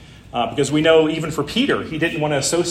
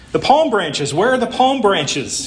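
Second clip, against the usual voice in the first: higher, indignant mock shout; 6 semitones higher than usual. Proud donkey shouting at the marketplace crowd, a higher mock shout. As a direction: demand the missing palm branches, raised and high. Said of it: "he shouted".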